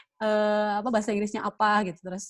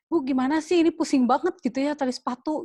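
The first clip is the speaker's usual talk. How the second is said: put-on child voice; 6 semitones higher, 5 dB louder than usual. Child asking parent for help.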